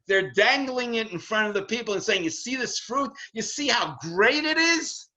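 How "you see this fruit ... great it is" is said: mock tempter. Teacher voices tempters dangling fruit.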